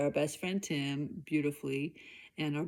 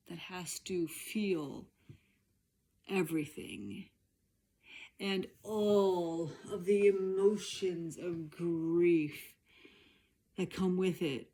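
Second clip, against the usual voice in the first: hushed heartfelt; slower than usual. Real, not acted. Heartfelt on grief.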